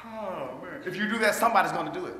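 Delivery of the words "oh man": yawning. Retold or imitated. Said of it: "It's just like when you go out and you yawn".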